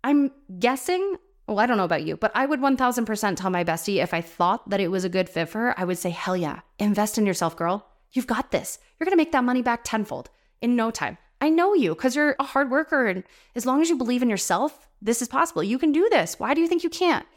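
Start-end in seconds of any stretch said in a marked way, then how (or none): 6.1-17.3 encouraging pep talk, climbing higher as it goes; hyping up. Acted. Friend urging her bestie to invest in herself, hyping her up. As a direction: hype them up like a best friend. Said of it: "We hype them up".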